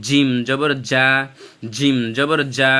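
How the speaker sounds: জিম জবর জা with a hard, firm জ; firm pronunciation. Shown as a demonstration. Teacher modelling জিম জবর জা firmly for students to copy. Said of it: "শক্ত করে আমি যেভাবে বলতেছি".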